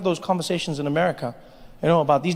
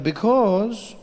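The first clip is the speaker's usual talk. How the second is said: stumped commenter; 2 semitones higher, much slower than usual. Retold or imitated. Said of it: "They're like".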